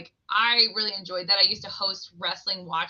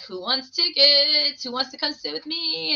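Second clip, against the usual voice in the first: put-on calling out to kids; 6 semitones higher than usual. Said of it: "then I'd be like".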